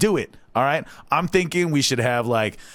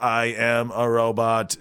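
slow, even robot monotone. Shown as a demonstration. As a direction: say it like a stiff machine. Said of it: "like, robot voices, you can normally tell".

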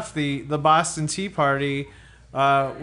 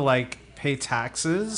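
vocal fry; 2 semitones lower, 5 dB quieter, much slower than usual. Pretend. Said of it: "vocal fry throwing".

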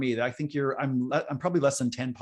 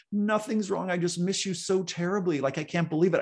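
tearful reply; 6 semitones higher than usual. Retold or imitated. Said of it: "I'm like".

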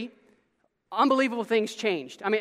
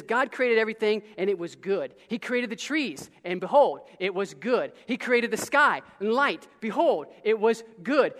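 rhythmic cadence. Acted. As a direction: chant it like a steady beat.

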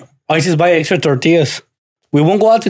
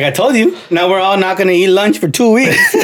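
a higher, scolding father voice; dad scolds the kid over lunch money, raised; mock scolding dad; 5 semitones higher than usual. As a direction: lecture the kid, half laughing. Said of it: "He's like".

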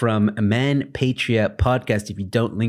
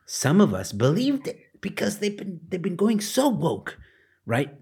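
sarcastic; 9 semitones higher than usual. Acted. Mocking belief in woke casting.

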